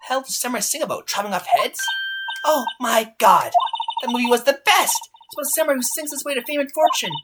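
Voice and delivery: put-on high, gushing girl's voice; excitable fangirl. Fan explaining the Singing Samurai movie, gushing. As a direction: gush about a favorite film, pitched high.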